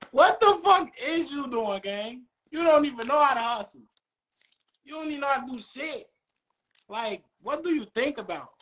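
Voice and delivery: high, exasperated disbelief; incredulous rant. Real, not acted. Ranting to the boys about a broke friend, high and incredulous. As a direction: pitch it up in mock disbelief.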